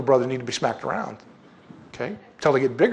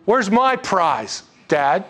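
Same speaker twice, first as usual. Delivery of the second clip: higher, drawn-out protest; aggrieved demand; 4 semitones higher, 3 dB louder, much slower than usual. Acted. Older son demands his prize from Dad, aggrieved. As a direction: demand what you feel owed. Older son's complaint to father.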